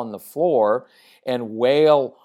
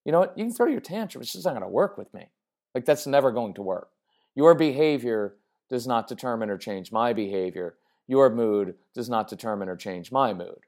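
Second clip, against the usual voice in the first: calm, unbothered; 3 semitones lower than usual. Acted. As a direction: tell the toddler calmly it won't work. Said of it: "here's what I'm communicating".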